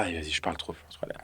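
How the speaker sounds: breathy whisper to someone nearby; hushed reminder to stop talking; whispered aside. Real, not acted. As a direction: drop to a whisper, talking to yourself.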